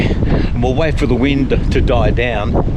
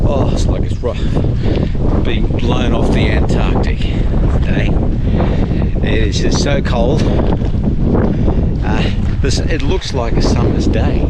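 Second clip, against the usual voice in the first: shouting over wind. Real, not acted. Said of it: "whether you can hear me over the wind".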